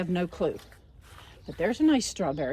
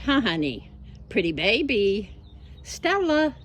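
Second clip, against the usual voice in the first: talking to a pet; 2 semitones higher, slower than usual. Real, not acted. Cooing to her dog.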